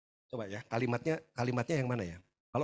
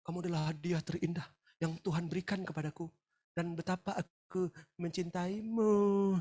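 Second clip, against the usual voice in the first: husband's sweet talk; 4 dB quieter than usual. Retold or imitated. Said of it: "si pria akan ngomong gini sama istrinya".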